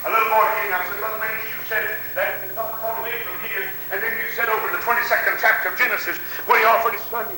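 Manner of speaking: revival sermon in rhythmic bursts; impassioned church preacher; fervent preaching. Real, not acted. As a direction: preach it with swooping cries on key words. Preaches to congregation.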